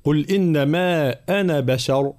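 measured tajweed recitation; Quran recitation. Shown as a demonstration. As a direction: recite the verse carefully, long vowel in إنما. Recites verse being taught.

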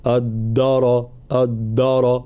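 "الدار" with a heavy دال, showing the mistake; wrong pronunciation. Shown as a demonstration. Teacher imitating a common error. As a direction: thicken the دال in "الدار" on purpose. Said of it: "فلا نقول".

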